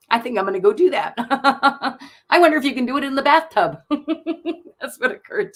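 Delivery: talking through real giggles, fast; laughing. Real, not acted. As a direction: laugh it off with relief. Laughing after emotional moment.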